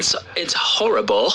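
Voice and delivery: lightly put-on British accent. Shown as a demonstration. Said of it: "how's your British accent".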